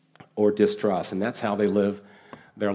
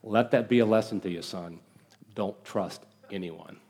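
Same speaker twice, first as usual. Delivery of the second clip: understated stern warning, dropping much softer at the end; mildly stern father; 3 dB quieter than usual. Acted. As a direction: play a quietly stern dad, slowing on the last words. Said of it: "he says very sternly".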